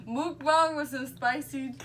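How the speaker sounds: laughing. Real, not acted. Laughing through the word.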